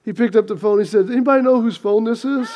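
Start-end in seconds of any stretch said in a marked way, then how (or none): 1.1-2.5 quick question breaking into laughter; can't hold the punchline in; laughing through it. Real, not acted. Preacher delivering the joke's punchline, laughing.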